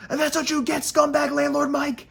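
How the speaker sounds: high, loud mocking jeer; gloating taunt. Jeering the scumbag landlord Mike, high and loud. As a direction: rub it in with a sneering sing-song.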